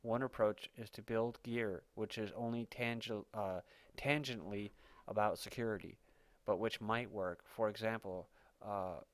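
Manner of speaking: steady, measured reading of a written report; article read-aloud. Acted. Reading a speculative article to listeners, news-story narration.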